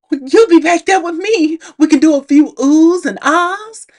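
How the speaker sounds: high, loud, cheerful; sweet high voice. Retold or imitated. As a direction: chirp it brightly. Acted Laurel, cheerful.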